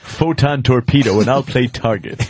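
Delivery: measured, hammed-up puzzlement; actor guest, amused. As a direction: play the fussy actor baffled by nude women. Same actor figure, amused and puzzled.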